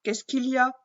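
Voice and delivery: a touch of a puzzled princess; curious princess. Acted. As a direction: ask innocently what is wrong. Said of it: "interroge la princesse".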